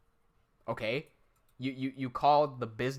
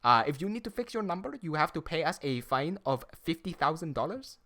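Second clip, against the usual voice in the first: mock Indian accent scam caller; imitating an Indian scammer's phone script; 3 semitones higher than usual. Streamer imitates the scam caller, in a light Indian accent. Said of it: "how I'm doing the Indian accent".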